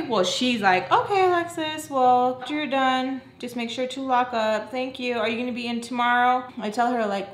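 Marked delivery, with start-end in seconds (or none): 0.9-6.4 higher singsong imitation; mock employer voice. Employer telling Alexis to lock up, mock high voice. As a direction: mimic her giving closing instructions. Acting out teacher's phone instructions.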